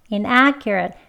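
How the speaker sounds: inaccurate with a natural kr sound. Shown as a demonstration. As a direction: say inaccurate without a forced cure. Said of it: "아니고 inaccurate".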